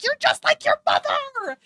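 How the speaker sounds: high, loud mock yell; Alyssa. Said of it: "Alyssa needs to come in here and be like".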